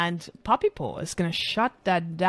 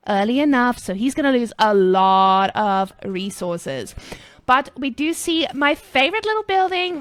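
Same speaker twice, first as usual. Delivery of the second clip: put-on Starbucks girl; 4 dB louder than usual. Streamer back to casting as a gushing Starbucks girl. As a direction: hype it up like a peppy coffee-shop girl. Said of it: "coming back to being a Starbucks girl".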